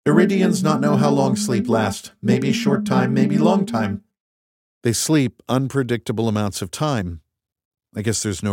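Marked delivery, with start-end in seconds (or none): 0.1-4.0 an alien friend scolding, word by word; Rocky alien voice. Acted. Rocky speaks.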